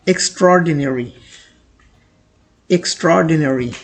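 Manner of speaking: extraordinary said slowly with the middle syllable light; model pronunciation. Shown as a demonstration. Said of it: "आप इसे पढ़ेंगे".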